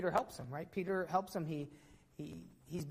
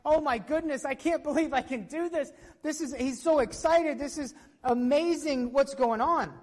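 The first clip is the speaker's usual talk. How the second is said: higher, bubbling over with joy; excited healed man; 4 semitones higher than usual. Pretend. Healed man jumping in the temple, elated. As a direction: jump for joy in the voice. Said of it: "jumping up and down like".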